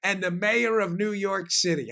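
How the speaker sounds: lightly imitated Italian accent, drawn out slowly; slow, deliberate mock Italian accent; teacher's Italian accent. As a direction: finish the teacher's saying with a hint of Italian accent. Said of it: "with that Italian accent of his".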